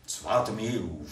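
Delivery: "Zwarte Meehof" spoken slowly, syllable by syllable, as if sounding out an unfamiliar name; careful pronunciation. Real, not acted. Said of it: "das muss man mal aussprechen". („Zwarte Meehof“ langsam und tastend ausgesprochen)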